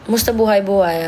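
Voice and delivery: a lightly voiced street tough saying hi; tough-guy greeting. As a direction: drop into a cool gangsta voice. Tries out street-slang greeting voice.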